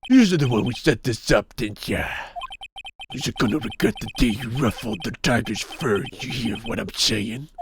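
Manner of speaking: streetwise thug, dismissive; tough gangster voice. Acted. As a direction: growl it like a mob boss.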